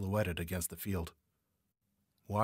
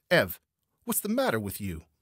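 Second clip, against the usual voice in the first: loud call to a hidden gunman; protesting shout; 3 semitones higher, 7 dB louder than usual. A narrator's reading. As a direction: shout out in protest across the trees. Shouting to the man who fired.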